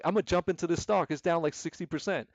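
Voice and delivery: impatient rookie jumping in; lightly imitated greedy excitement; emotional novice trader. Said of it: "I'm being emotional".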